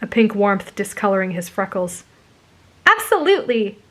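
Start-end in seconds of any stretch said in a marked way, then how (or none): 2.9-3.8 high, upbeat assurance; encouraging. A narrator's reading. Girl encourages the bashful boy, high and upbeat. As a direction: cheer a friend on. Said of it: "she encouraged".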